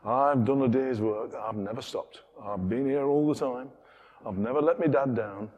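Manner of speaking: put-on light Yorkshire accent, self-satisfied son; a hint of smug Yorkshire. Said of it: "I could do a Yorkshire accent here".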